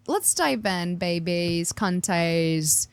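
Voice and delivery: lightly put-on accent, voice sinking at the end; playful, badly faked accent; Tiffany's accent. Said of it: "it's Tiffany's accent".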